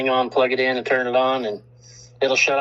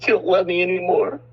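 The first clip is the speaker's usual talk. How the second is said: higher-pitched playful pouting; mock hurt phone; 6 semitones higher than usual. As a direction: pout like a jilted old phone. Playing the jilted old phone.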